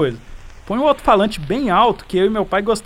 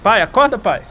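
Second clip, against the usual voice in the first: panicked calling for help. Acted. Son calls father, begs help.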